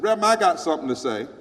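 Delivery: quick loud retold interruption; quoting the lady. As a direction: burst in like she's grabbing the mic. White lady interrupts on stage.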